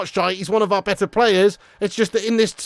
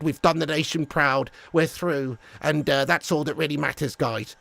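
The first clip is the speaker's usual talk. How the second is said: low, soft, limp pep talk; a meek manager mumbling praise; mock Southgate team talk; 6 semitones lower, 6 dB quieter than usual. Fan mocking manager's weak dressing room speech, low and soft. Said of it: "he's gonna go in there like this".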